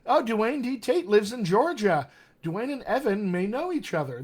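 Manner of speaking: light up at the news; excited. Real, not acted. Coach spotting two viewers from Georgia, excited. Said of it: "This is exciting".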